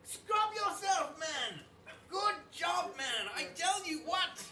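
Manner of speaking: high, fussy French chef voice. Acted. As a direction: scold like a haughty French chef. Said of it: "Archibald is, is, uh, says".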